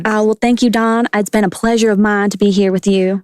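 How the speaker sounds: lightly put-on Southern politeness; Southern guest thanking a hostess; a hint of Southern twang; Southern accent. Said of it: "talk in a Southern accent, please".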